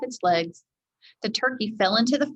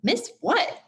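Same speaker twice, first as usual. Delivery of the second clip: Annie's voice; 8 semitones higher than usual. A narrator's reading. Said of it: "asked Annie".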